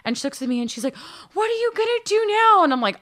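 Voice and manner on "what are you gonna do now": imitated old lady, high, wide-eyed question; eager little-old-lady impression; high-pitched little voice. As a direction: ask it in a tiny, high, loud voice. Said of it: "she has this high-pitched little voice".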